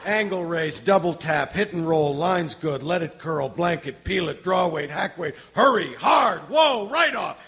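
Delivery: building from calls to shouted climax; curling skip yelling. Acted. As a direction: yell curling calls, rising to a peak.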